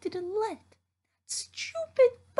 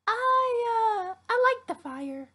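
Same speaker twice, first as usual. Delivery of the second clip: crying; slower than usual. Acted. Crying interviewee on the news.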